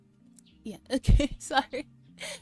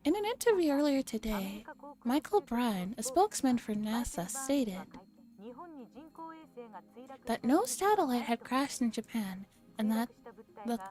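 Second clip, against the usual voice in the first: mildly put-on news reporter read; 2 semitones higher than usual. Visual novel player voicing a TV satellite report, news reporter style. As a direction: deliver it like a lively field report.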